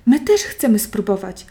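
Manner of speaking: calling out. Acted. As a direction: shout it together, eager. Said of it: "wołają wszystkie zwierzęta".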